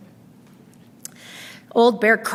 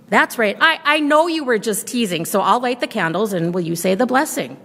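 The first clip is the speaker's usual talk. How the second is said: put-on old grandmother voice; 2 semitones higher than usual. Baba Brena continues.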